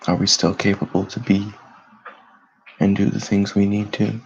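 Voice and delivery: calm, unhurried meditation voice with long pauses; guided meditation. Acted. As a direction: guide listeners gently into stillness, leaving space between phrases.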